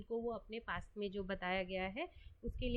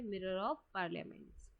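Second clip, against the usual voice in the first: repeated answer to memorise; 2 semitones lower, 4 dB quieter, slower than usual. Shown as a demonstration. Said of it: "और newspaper का नाम भी क्या है?".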